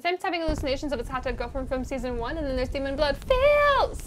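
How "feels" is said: very high, drawn-out cry; mock emotional wail. Recapper milking the sad moment, high mock wail.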